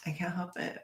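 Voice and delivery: whispered, barely voiced; whispered excuse. Real, not acted. Streamer excusing herself to chat, whispering. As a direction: repeat it to yourself in a whisper.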